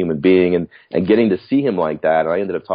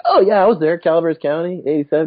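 higher, breezy fake boast; mock bragging; 11 semitones higher than usual. Faking a concert memory in the backyard, mock boast. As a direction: brag like you were really there. Pretending to have been there.

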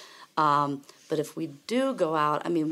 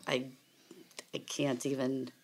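choking a little; 3 dB quieter than usual. Real, not acted. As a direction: voice catching from choking. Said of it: "I'm sorry, I'm choking a little bit".

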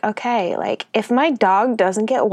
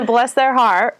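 put-on Southern accent; slower than usual. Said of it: "Southern accent that doesn't exist".

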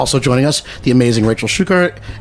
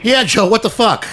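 amused surprise; 7 semitones higher than usual. Real, not acted. Surprised by caller.

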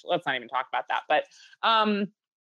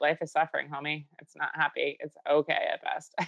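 mock Gen Z Buddhist, dropping softer and flat; deadpan Buddhist; 2 semitones lower, 5 dB quieter than usual. Gen Zers shrugging that life is suffering, deadpan and sinking. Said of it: "They're like".

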